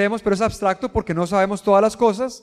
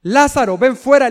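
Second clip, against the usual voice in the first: a commanding call, only a bit louder; mild mock shout; 2 semitones higher, 4 dB louder than usual. Jesus calling Lazarus from the tomb, mild mock shout. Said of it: "Jesús le grita".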